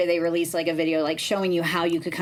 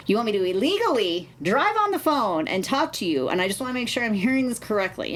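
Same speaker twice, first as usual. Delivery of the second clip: mildly raised, pointed questioning; retold incredulity; 4 semitones higher than usual. Woman checking a fake officer's illegal demand, mock-incredulous questioning. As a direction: replay questioning an absurd demand, pitched up. Retells challenging the scam caller.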